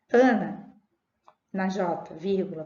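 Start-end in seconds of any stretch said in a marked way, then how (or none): 0.1-0.7 louder call of a name. Shown as a demonstration. Teacher reading the exercise, calling Ana. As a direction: call Ana to get her attention. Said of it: "Tem a vírgula".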